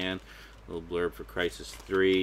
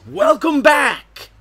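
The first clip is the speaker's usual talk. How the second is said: huge wired shout, higher, louder, slow; too much caffeine; 14 dB louder, much slower than usual. Real, not acted. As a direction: blast it out like a caffeine rush. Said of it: "I'm actually kinda wired on coffee".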